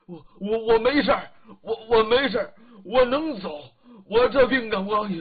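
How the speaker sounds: anxious stammering, pushing out loud bursts; sick man stammers to prove he can walk; flustered stammer. Acted. Lao Sun insists on walking, flustered stammer. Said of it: "老孙急了".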